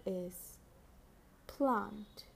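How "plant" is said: each word slow and crisply spoken; dictating. Shown as a demonstration. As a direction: say it clearly for children to write. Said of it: "I repeat".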